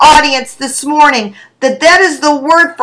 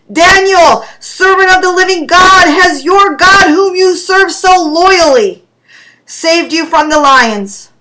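king calls anxiously to Daniel in the den; called out anxiously; 3 semitones higher than usual. Acted. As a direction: call down into the den, fearing the worst. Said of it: "he called out anxiously".

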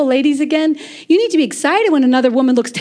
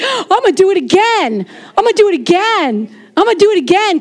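eager, praised God; 4 semitones higher than usual. Acted. Voices God delighted by praise.

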